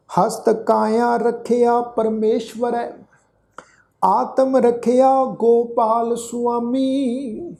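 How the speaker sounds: drawn-out devotional recitation of the verse; slow scripture recitation. Acted. Teacher reciting the shabad to the congregation, slow devotional chant. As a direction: intone each phrase slowly and reverently.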